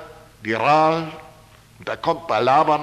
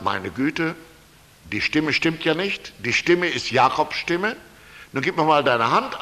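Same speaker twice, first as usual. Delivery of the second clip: put-on suspicious old Isaak; 2 semitones lower than usual. Blind Isaak voiced, suspicious.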